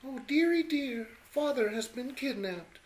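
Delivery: damsel in distress. Acted.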